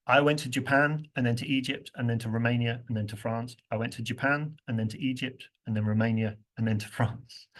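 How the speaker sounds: "and then to" reduced, only Japan and France strong; natural stress timing. Shown as a demonstration. Teacher modeling natural rhythm to the class, reduced fillers. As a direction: glide through "and then to", land on the places. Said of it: "Now look what else happens".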